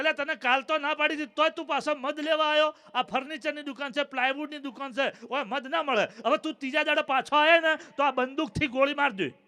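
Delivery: mock-angry shopkeeper scolding; irritated shopkeeper. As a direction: tell the pest off, lightly hammed. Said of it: "દુકાનદારનું મગજ ગયું". (ગ્રાહક પર ચિડાયેલો દુકાનદાર, નાટકીય ગુસ્સામાં)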